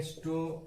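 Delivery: स्टोमैकेस said with an added es at the end, softly; stomach-es as the wrong form; wrong plural shown. Shown as a demonstration. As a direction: demo the mistake स्टोमैकेस, ending es. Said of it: "तो ये गलत हो जाएगा".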